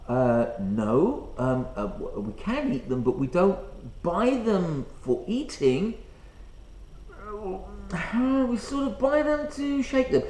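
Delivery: acted sheepish hedging, full of ums; hesitant, reluctant mock explanation; awkward explanation. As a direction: stall and fumble through an embarrassing answer. Playing himself awkwardly explaining.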